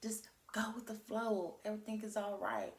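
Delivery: lightly voiced angels soothing a friend; reassuring angels. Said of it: "They like".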